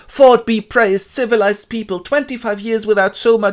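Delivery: high, loud figure voice for Linda; Linda's lament. Acted. Linda complains to visitors from civilization, high-voiced lament.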